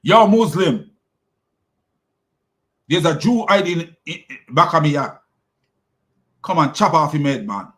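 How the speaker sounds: lightly put-on Jamaican accent. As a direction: talk like a Jamaican stone, mild. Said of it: "like a Jamaican accent".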